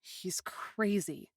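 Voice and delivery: slow voiceless mutter; hushed slow aside. A narrator's reading. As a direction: mutter under your breath. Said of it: "I muttered".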